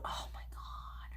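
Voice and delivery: breathless awed whisper; hushed disbelief. Real, not acted. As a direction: barely breathe it. Admiring palette.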